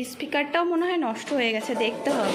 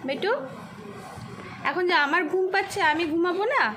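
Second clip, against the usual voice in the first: put-on higher, sing-song baby talk with playful grumbling; mock-whiny talk to a toddler; 4 semitones higher than usual. Mother to her toddler who wants to play, higher mock-whiny baby talk. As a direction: tease the little girl that you're too sleepy to play.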